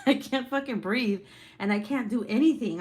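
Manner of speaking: loud panicked retelling. Real, not acted.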